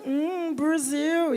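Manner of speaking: Brasil drawn out very slowly, suggestive and falling; a mock lecherous hum, Brasil, very slow; leering Brasil. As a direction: savour Brasil slowly like a gringo on the prowl. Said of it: "o cara acha que tu tá lá disponível sexualmente".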